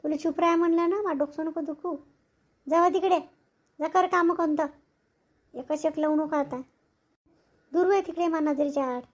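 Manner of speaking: angry scolding. Acted. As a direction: snap at the kid to leave you alone.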